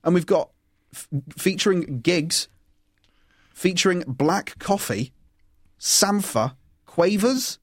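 slow, drawn-out name calling; bingo caller. Real, not acted. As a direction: call the names like bingo numbers. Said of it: "Why'd you say it like a bingo caller?".

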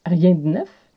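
rien de neuf, de réduit à d; Quebec French accent. Shown as a demonstration. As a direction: dites rien de neuf en liant d et n. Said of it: "le brise-glace du jour qui est". (accent québécois)

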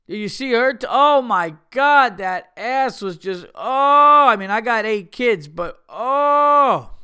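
loud, high, hammed-up ogling; leering married guy. A married dad of eight ogling a woman, hammed-up leer. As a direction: drool over her like a dad of eight. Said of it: "if a married guy was like that".

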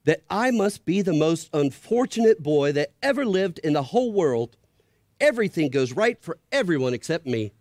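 put-on a tired boy feeling sorry for himself; Shasta, sorry for himself. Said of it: "said Shasta".

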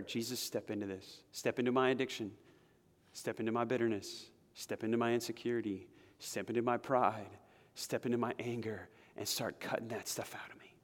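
soft, intimate prayer sinking to a whisper; simple prayer. Pretend. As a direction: pray it quietly, close to God. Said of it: "that simple prayer".

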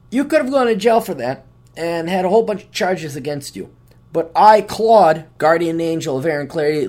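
a hint of a stern angel lecturing; grumpy guardian angel. Claude lecturing the comedian about jail, mildly condescending. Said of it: "it kinda looks at you".

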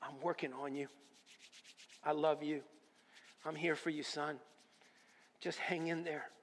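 soft, hushed and reassuring; a gentle, loving God consoling his son; tender voice of God. Retold or imitated. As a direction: comfort him quietly like a loving father. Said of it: "He said".

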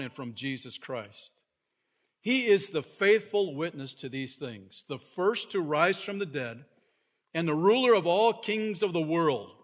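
solemn, proclaiming Bible reading; scripture reading. Acted. Preacher reading Revelation to his congregation, proclaiming. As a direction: read it out like a proclamation to the church.

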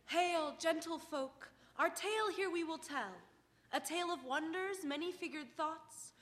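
measured, declaimed opening verse; Shakespearean prologue. Acted. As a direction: recite it like an old-time play prologue. Recites mock-Shakespearean prologue.

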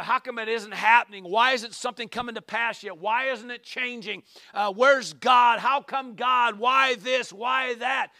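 voicing the psalmist's frantic questions, rising to a shout; pleading and demanding why; anxious complaining. Preacher voicing the troubled psalmist to God, urgent and loud.

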